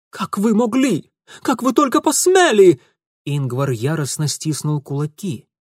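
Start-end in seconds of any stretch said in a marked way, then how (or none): 0.1-2.8 higher and louder, building fury; rising indignant cry; outraged. A narrator's reading. Ingvar raging at Mitya, building outrage.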